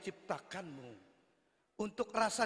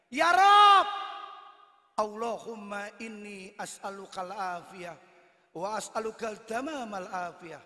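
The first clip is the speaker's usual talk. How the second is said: devout santri praying; 5 dB louder than usual. Retold or imitated. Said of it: "Anak santri, doyan pengajian".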